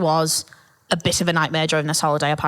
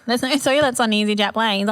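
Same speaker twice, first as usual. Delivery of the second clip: put-on childlike insistence; 4 semitones higher than usual. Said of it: "I was like".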